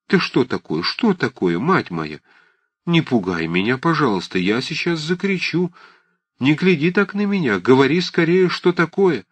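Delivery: put-on alarmed old aunt. A narrator's reading. Old aunt alarmed by Liza's look.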